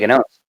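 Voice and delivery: gnomes with the silent G voiced, as guh-nomes; hard G. Shown as a demonstration. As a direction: pronounce the g at the start of gnomes. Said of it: "Hard G".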